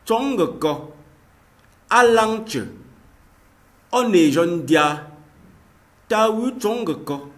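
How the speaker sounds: each word spoken high and loud, one by one; slow clear model pronunciation; teacher pronouncing words. Shown as a demonstration. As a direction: enunciate every Ngemba word clearly for learners. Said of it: "vous allez bien voir comment ça se prononce".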